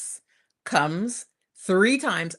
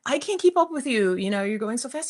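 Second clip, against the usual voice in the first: breathless plea; 4 semitones higher than usual. Retold or imitated. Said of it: "I'm like".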